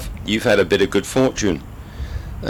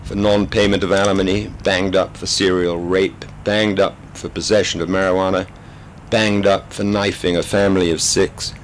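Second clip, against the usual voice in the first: steady British storyteller reading aloud; story narration. A narrator's reading. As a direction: read the novel to the audience with dry understatement. Reads a novel aloud.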